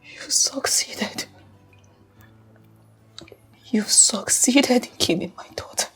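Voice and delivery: low, slow, hushed accusation; subdued accusation. Acted. Grieving mother blaming husband for daughter's death, hushed bitterness. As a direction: accuse him under your breath.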